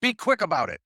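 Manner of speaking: loud, high urgent call; yelling to the room. Retold or imitated. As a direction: shout the tip across the room, loud and high. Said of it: "he yells to everybody out there".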